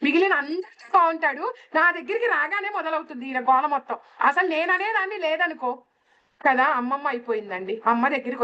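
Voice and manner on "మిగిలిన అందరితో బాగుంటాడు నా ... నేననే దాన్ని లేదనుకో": higher, mock-grumbling grandmother; grandmother's complaint. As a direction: imitate a grandma venting about grandpa, pitched up. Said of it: "అమ్మమ్మలు కూడా ఇదే dialogue చెప్పారు". (అమ్మమ్మ గొంతులో ఎక్కువ స్వరంతో ఫిర్యాదు)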